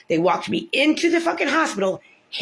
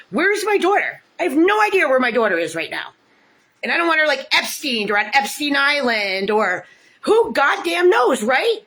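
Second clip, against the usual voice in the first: distressed outburst; 5 semitones higher, 3 dB louder than usual. Real, not acted. Distress about missing daughter.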